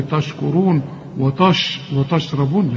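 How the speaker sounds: تشكرون and وتشربون with thick ط for ت; wrong heavy ta. Shown as a demonstration. Teacher warns student off the error, heavy ta. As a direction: mispronounce both words with heavy first consonants. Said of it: "مش تقول لي".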